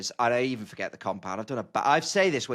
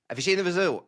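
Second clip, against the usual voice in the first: excited; 4 semitones higher, faster than usual. Retold or imitated. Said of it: "with the most excited tone".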